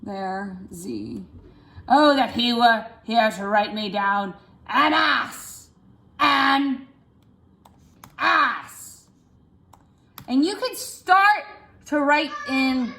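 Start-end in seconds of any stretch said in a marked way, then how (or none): 1.9-9.1 pitched down. Shown as a demonstration. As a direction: sink the voice down on this line. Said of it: "I'm gonna go down".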